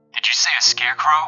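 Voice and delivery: ordinary talk, nothing marked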